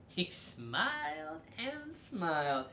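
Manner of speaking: high giggly soft reading; laughing. Acted. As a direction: giggle through the words. Reads smile with laugh.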